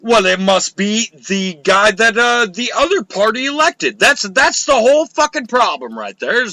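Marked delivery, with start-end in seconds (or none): 4.0-6.5 emphatic. Real, not acted. Emphatic point about partisanship.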